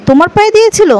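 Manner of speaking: retold amazement, voice jumping up; astonished question. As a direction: rise up in shock at the news. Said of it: "কথাটা শুনে অবাক হয়ে যায়".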